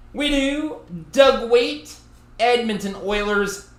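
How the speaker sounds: high, loud excited reveal. Real, not acted. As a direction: hype up the big hit.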